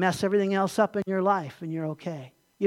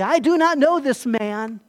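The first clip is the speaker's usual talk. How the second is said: slow, deliberate acted denial; measured, insistent disavowal; emphatic. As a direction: deny it firmly, word by word. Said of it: "And then emphatically".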